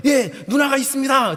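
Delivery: high, loud military reply; eager rookie soldier, shouted; recruit's answer. Retold or imitated. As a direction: sound off like a keen private. Recruit answers his seniors.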